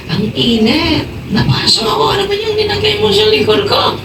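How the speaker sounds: high, shouted cries of a burning man; burned man crying out. Retold or imitated. Man yelling to his wife that it burns. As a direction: yell as if the oil scalds your back. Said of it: "Ang sabi niya sa kanyang asawa".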